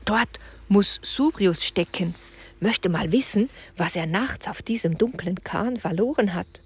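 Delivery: hushed curious whisper. Acted. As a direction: keep hidden, barely breathe it. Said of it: "flüsterte Julian".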